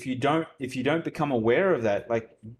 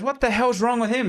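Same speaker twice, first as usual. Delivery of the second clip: higher, louder exasperated question; acted puzzled husband; 11 semitones higher, 5 dB louder than usual. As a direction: play a husband demanding an explanation. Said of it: "the husband looks to the wife and goes".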